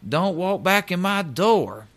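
a mock angry shout that climbs high on Dave; retold yell. Supervisor yelling after the rep as he walks out, imitated angry shout. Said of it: "and he yells at me".

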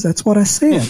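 high southern light; light said as lot, high and twangy; southern accent. Retold or imitated. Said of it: "She says".

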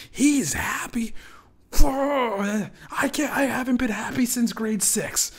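high, loud, strained outrage; bitter mob member. Retold or imitated. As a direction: seethe like a jealous heckler. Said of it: "Get their torches ready".

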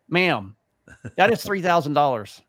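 mild retold indignation; indignant. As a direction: protest to the agent, firmly. Retold argument with airline agent.

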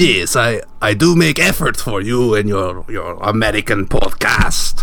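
lightly voiced whale caller; put-upon foreign guest, slow at the end; Martin. Whale caller defending his efforts for the podcast, lightly put-on voice.

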